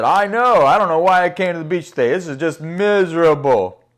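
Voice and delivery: loud, hammed-up grumble; whining complaint. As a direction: play a fed-up whiner, loudly. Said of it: "They were whining".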